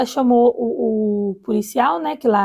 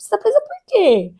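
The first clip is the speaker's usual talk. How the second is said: imitated nosy doctor. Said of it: "umas perguntas bem invasivas".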